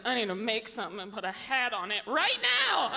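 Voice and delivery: far-off-self urgent demand, building; urgent craving. Acted. Comic seized by baby urge at a fedora, urgent.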